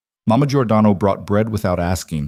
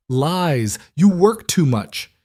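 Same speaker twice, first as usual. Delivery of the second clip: Italian mama scold; 8 semitones higher, slower than usual. Acted. Mama Giordano scolds him again.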